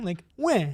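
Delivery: mock British baby wail; hammed-up posh crying; British fake cry. Shown as a demonstration. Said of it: "a British accent crying".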